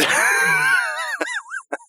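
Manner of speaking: high-pitched squeal; mock wail. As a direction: let out a high, mock-crying whine. Jokey cry after doubting own impression.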